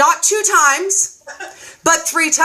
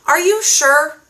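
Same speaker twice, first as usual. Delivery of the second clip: mock disbelief; 4 semitones higher than usual. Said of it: "guess what Dory said".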